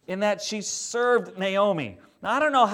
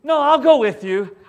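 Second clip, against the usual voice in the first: Minnesota nice; 9 semitones higher, 11 dB louder than usual. Retold or imitated. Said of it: "she was Minnesota nice".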